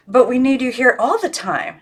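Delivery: put-on the girl speaking for her doll, lifted high; Miss Christabel voice. A narrator's reading. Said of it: "she said for Miss Christabel".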